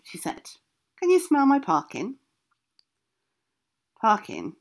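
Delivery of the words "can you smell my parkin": sly witch voice. Acted. Witch tempts Billy.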